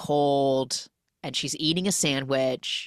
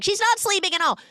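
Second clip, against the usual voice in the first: put-on much higher, tattling Serbian accent; 3 dB louder, faster than usual. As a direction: snitch shrilly in a Serbian accent. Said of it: "Serbian accent".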